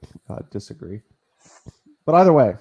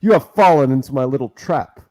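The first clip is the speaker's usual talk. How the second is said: cartoon villain; 4 dB louder than usual. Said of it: "he sounded like a cartoon villain".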